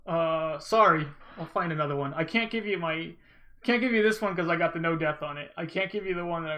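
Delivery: loud flustered ranting apology; loud and flustered, talking over yourself; raging gamer. Real, not acted. Frantic apology to viewer Iopa.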